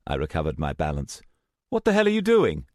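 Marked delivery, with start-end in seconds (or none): 1.7-2.7 higher, louder angry demand; angry outburst. Acted. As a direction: snap at her in anger. Startled by sudden whirlwind.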